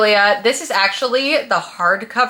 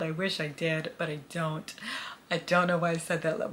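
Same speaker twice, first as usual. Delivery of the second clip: odd voice 1; 3 semitones lower, 13 dB quieter than usual. Real, not acted. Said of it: "Why are you still talking like that".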